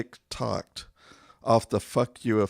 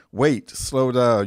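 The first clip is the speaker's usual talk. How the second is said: nagging shout; 3 semitones higher, 6 dB louder than usual. Acted. Nagging a driver, calling out.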